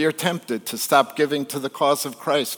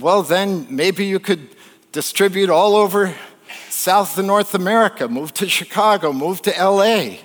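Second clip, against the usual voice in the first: animated, higher-pitched sales talk; eager pitch; 4 semitones higher than usual. Retold or imitated. Harvard grad urging a fisherman to go continental, eagerly. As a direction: sell ever bigger plans with gusto.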